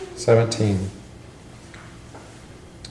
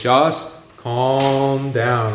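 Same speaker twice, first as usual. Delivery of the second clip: soothing calm down; much slower than usual. Shown as a demonstration. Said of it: "It's like".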